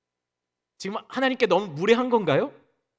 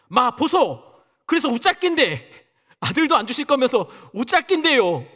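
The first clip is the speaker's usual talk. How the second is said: blunt Busan dialect, mildly hammed; 6 semitones higher, 4 dB louder than usual. Abraham confronting God in blunt Busan dialect. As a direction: challenge God in a Busan accent. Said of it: "아브라함이 부산 사람이라고 했으면".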